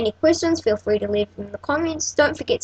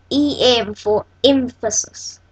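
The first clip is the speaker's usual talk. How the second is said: "E M for emphasis" slow and deliberate; emphatic; much slower than usual. Real, not acted. Teacher introducing one last tag, emphatic. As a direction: draw out "E M for emphasis", spacing the words. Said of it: "I'm saying that with emphasis".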